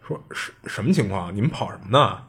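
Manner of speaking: imitating a stammer, starting softly; mild retold stammer. Embarrassed instructor questioning the boys after fleeing, lightly stammered. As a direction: trip on the first word, feigning composure. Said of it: "就结结巴巴就重复说".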